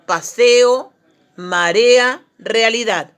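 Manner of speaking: PASEO, MAREA, REALIDAD with each neighbouring vowel sounded as its own syllable; vowels separated. Shown as a demonstration. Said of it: "Aquí las vocales se separan".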